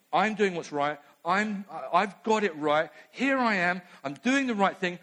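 lightly voiced smug certainty; a touch of indignant self-justification; Martha self-righteous. Martha insists to Jesus she is right, mildly smug. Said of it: "She's absolutely sure".

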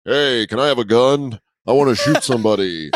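Canadian's idea of a dim American; mock American accent. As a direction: lightly caricature an American accent. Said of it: "they were all like".

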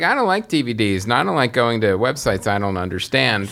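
lightly put-on whiny consumer voice; hint of a whiny, complaining customer. Host mocks listeners put off by websites, whiny consumer voice. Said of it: "The whiny consumer voice".

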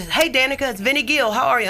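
lightly imitated cheery phone hello; a country singer's greeting. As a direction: lightly play the famous caller saying hello. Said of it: "He answered the phone and said".

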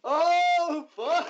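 high startled curse; shocked outburst. Real, not acted. GM hears the bamboozle plan: startled high curse. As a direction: blurt it out, caught off guard.

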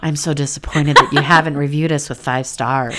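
playfully guilt-trip like a let-down mother; lightly put-on disappointed mother voice, half laughing. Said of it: "this is the mother voice".

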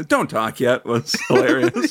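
talking through real laughter; laughing while recalling something hilarious; amused laughter. Real, not acted. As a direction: let the laugh break into the words. Cracked up recalling host's scolding.

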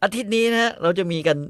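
lightly mimicking a cooking show host; mock show host. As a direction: announce it like a TV host.

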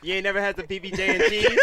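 giggling through the question; laughing disbelief. Real, not acted. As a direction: laugh while you tease. Teasing friends, laughing.

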